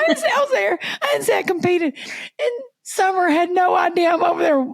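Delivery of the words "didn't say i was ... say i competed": high laughing protest. Real, not acted. Speaker defending her fib to her co-host, laughing high. Cracking up over own lie.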